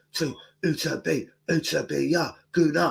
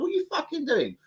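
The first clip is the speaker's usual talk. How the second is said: put-on Luton white boy voice. Threatening the fan who took a photo, in a high Luton voice. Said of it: "my little Luton white boy voice".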